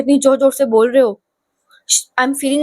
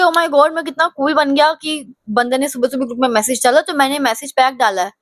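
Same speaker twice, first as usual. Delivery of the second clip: smug mock; 2 semitones higher than usual. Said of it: "और वो सोच रहे होंगे".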